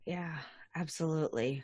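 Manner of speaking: breathy whispered agreement. Real, not acted. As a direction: whisper it softly.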